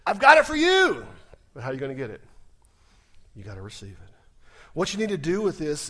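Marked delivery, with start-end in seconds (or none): 0.0-1.1 voicing God, climbing to a loud finish; God speaking. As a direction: voice God's generous offer, rising. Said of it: "God says".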